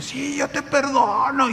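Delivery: high, slow, tearful forgiving; forgiving through tears; a high, weeping "yo te perdono". Retold or imitated. Woman forgiving while weeping.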